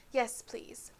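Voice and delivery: unvoiced sly whisper; whispered mockery. A narrator's reading. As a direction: whisper it slyly. Peeves mocking Filch.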